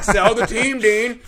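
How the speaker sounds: very high, very loud yell; imitated heckler's shout. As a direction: holler it like a heckling fan. Retelling a heckler calling to Dean.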